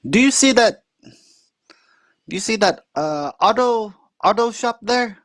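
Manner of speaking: high-pitched imitation of the uncle; proud uncle pointing out the town, voiced high.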